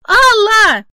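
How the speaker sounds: overjoyed shout to Alla; joyful shout. Acted. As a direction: call out with relief. Polina runs toward the voice.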